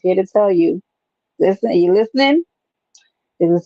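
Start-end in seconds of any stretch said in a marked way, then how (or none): 1.4-2.4 hushed, breathy secret; whisper. Real, not acted. Telling viewers about weekend fights, in a whisper. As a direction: lean in and whisper it.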